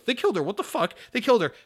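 high, loud disbelieving outburst; hammed-up horror at the twist; mock outraged yell. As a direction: shriek it like the game betrayed you. Retold outrage at heroine's death.

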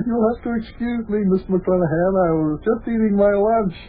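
high, flustered apology; flustered bed patient apologizing to the visitor. Acted. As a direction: babble it out all embarrassed. Flustered host greets visitor.

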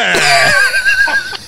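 high squealing laugh; burst of laughter. Real, not acted. Teller bursting into high squealing laughter at own story. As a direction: crack up at the punchline.

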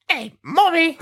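put-on very high British child voice; British little girl. Acting out the scene, the daughter greets her mother in a British accent. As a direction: chirp it like a small British girl. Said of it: "Excuse me while I put on the scene".

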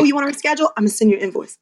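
mock-curt, with a laugh breaking in; blunt, joking. Shown as a demonstration. Teasing the curt version of the client call, laughing. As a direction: skip the niceties and go straight to the bill. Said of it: "That's all you say before anything".

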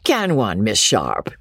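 high, chuckling banter; laughing teasing. A narrator's reading. George still laughing, teasing Amelia and Miss Sharp, high merry banter. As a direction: tease them both merrily. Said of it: "still laughing".

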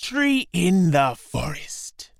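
slow, hushed plotting whisper; secretive whisper. Acted. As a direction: whisper the hiding place. Anansi whispers his secret plan.

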